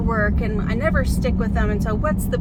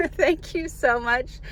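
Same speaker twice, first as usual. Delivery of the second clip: fighting tears while thanking; holding back tears; 4 semitones higher than usual. Real, not acted. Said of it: "I'm gonna try not to cry".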